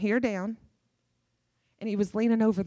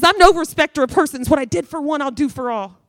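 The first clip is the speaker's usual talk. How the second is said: bold proclamation; 4 semitones higher, 9 dB louder than usual. Retold or imitated. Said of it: "See, he says".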